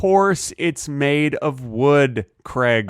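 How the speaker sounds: slow, drawn-out exasperation; weary, emphatic put-down; exasperated. Acted. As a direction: spell it out as if to someone dense. Exasperated at a silly question.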